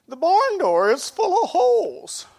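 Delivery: put-on high, loud, tearful boy's voice; crying boy. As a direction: cry it out like a heartbroken boy. Boy returns in tears to dad.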